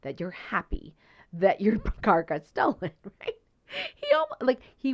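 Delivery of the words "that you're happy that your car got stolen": accusing. Retold or imitated. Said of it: "That's almost how it sounded".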